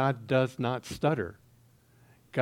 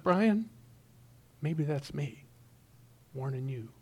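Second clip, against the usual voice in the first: choked up; 6 dB quieter than usual. Real, not acted. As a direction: hold back real tears while telling it. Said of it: "I just get a little misty".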